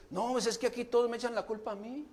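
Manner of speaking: mock whining devil. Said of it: "llore, y llore".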